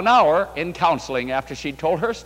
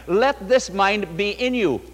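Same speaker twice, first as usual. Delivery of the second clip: slow reading; 2 semitones higher than usual. Shown as a demonstration. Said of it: "Philippians two, five to nine".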